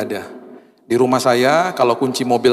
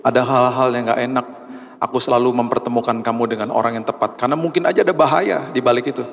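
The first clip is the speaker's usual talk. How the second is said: gentle voice of God. Retold or imitated. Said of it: "Tuhan juga tegur saya".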